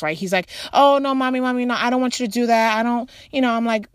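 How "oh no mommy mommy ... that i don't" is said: hammed-up kid begging mommy not to; mock panicking child. Son panicking over the cotton ball, fast pleading. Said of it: "now he starts to spaz".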